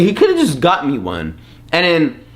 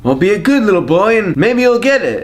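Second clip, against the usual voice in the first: lightly voiced Santa; 4 semitones higher than usual. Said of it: "And then he'd say".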